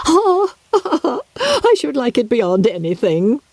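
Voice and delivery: squealing high with glee; delighted mother. Acted. Mrs Bennet to Lydia, shrill with delight. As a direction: gasp with delight like a giddy mamma.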